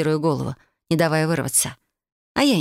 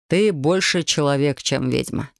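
lower, calm explaining voice; lightly voiced demon; 3 semitones lower, slower than usual. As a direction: explain like a patient mage.

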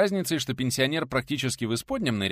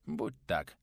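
soft, lower agreement; smiling assent; 4 semitones lower, 5 dB quieter than usual. A narrator's reading. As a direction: give in gently with a smile. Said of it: "улыбнулся пенсионер".

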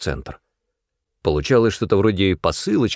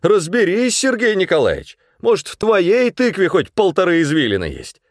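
angry customer insulting the manager; spiteful gloating; 7 semitones higher than usual. A narrator's reading. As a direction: sneer with revenge. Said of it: "с мстительным, злорадным чувством".

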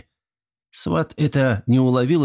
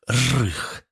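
short muffled growl; 2 semitones higher than usual. A narrator's reading. Artyom growls at the girl to leave. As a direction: growl once, muffled, like a beast. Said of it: "короткий приглушённый рык".

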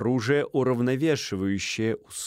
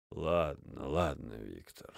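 much lower, softer and slow; placating major; 9 semitones lower, 11 dB quieter, slower than usual. Acted. Минц calming Стольский, low and weary. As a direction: soothe him wearily.

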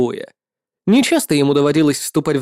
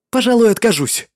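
proud, higher knightly refusal; noble paladin; 7 semitones higher than usual. Acted. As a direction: decline with calm defiance.

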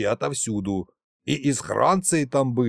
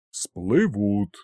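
lower, drawn-out musing; pensive drawl; 5 semitones lower than usual. A narrator's reading. Kolymdai muses over the prisoner's words, slow and pensive. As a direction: stretch the word out thoughtfully. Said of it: "задумчиво протянул Колымдай".

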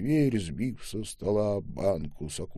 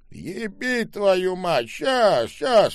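put-on higher, louder startled old man; flustered old man; 10 semitones higher, 6 dB louder, slower than usual. A narrator's reading. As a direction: curse in a hurry.

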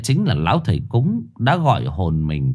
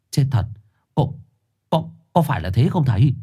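shocked question; 6 semitones higher than usual. Acted. Sinh shocked, asks shaman.

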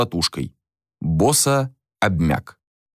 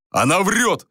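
higher-pitched protest; acted raised-voice denial; indignant exclamation; 9 semitones higher, slower than usual. A narrator's reading. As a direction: cry out against the lie. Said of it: "воскликнул Джориан".

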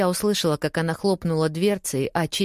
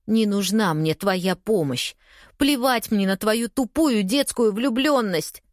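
angry outburst; 4 semitones higher than usual. Acted. Narrator loses control, yells.

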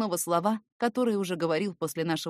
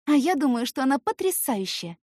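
put-on high confident girl voice; bright and self-assured; 7 semitones higher, 4 dB louder than usual. Girl's voice.

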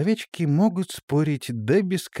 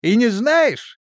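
mocking laugh; 10 semitones higher, 4 dB louder, much slower than usual. A narrator's reading. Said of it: "рассмеялся капитан".

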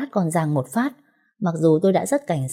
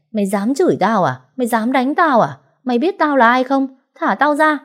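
building higher and louder, furious; yelling in pain; 8 semitones higher, 3 dB louder than usual. Acted. Drunk man pinned by the girl, yelling in pain and rage. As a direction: bellow it, arm twisted behind him. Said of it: "hắn ta đau quá gào lên chửi".

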